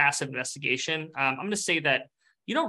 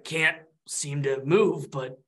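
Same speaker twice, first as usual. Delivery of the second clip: weary lava ghost; 2 semitones lower than usual. Acted. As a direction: drag out each word, listless. Lava ghost speaks slowly.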